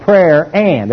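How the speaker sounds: AND drawn out after "prayer"; slow down and land firmly on "and"; stress on AND. Shown as a demonstration. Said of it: "Everybody say and".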